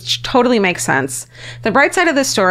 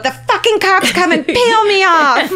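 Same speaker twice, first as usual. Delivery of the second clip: high, laughing, slow defiant line; half-laughing tough threat; defiant shout; 10 semitones higher than usual. Retold or imitated.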